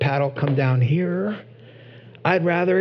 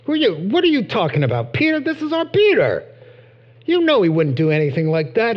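indignant protest; 4 semitones higher, faster than usual. Retold or imitated. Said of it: "James and John saying".

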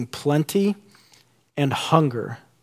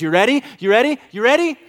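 each ready pitched higher than the last, rising tune; building suspense; 10 semitones higher, 4 dB louder, faster than usual. Retold or imitated. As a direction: climb the pitch with every ready. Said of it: "He says".

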